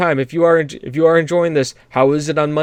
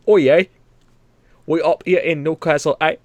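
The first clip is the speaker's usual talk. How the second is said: bad Newcastle accent. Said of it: "this weird ... Welsh South African".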